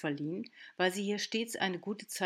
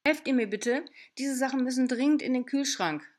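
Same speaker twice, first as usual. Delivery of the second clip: loud, higher, overly bright call; pointedly cheerful call; 6 semitones higher, 7 dB louder than usual. A narrator's reading. Father calling to wife and daughter, forced cheer. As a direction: call out cheerfully to cover the tension. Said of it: "rief Stefan betont munter".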